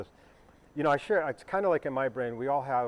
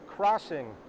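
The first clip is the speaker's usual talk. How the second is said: crossing said slowly and firmly, leaning on the first syllable; stress on crossing; 4 semitones higher than usual. Shown as a demonstration. Pilot stressing crossing on the radio so the controller verifies. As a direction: hit crossing so the tower notices. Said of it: "And I emphasize crossing".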